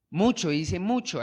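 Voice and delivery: both mucho words pressed, falling at the end; mucho, mucho, each one stressed. Shown as a demonstration. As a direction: hammer the word mucho twice. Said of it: "recalca esa palabra".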